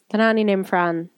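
attempted Irish accent with open vowels. Shown as a demonstration. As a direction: put on an Irish accent for a song title. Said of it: "there's your Irish accent".

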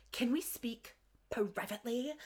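slow, soft, theatrical request; mock dramatic. Recapping Tristan pulling Miles aside, mock dramatic. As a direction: draw it out quietly with mock gravity. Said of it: "Very dramatically".

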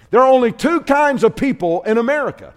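"only" hit harder, voice rising in a preacher's build. Shown as a demonstration. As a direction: push it up a notch each time. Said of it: "I'm gonna shoot straight".

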